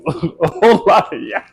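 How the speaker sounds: cracking up mid-sentence; amused, breaking into a laugh. Real, not acted. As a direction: laugh through the words. Cracks up at own intro.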